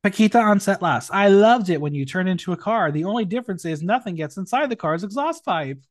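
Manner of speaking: lively, projected read-out of a roast; performed drag-roast reading. Acted. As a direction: announce the name, then deliver the jibe. Reads out contestants' roast jokes.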